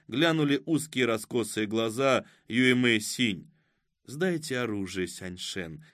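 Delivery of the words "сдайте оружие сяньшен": gentle, softening to a hush; tender little voice. A narrator's reading. Woman disarming Oskar, in a gentle voice. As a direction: give the order sweetly, trailing down softly. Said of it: "сказала она нежным голоском".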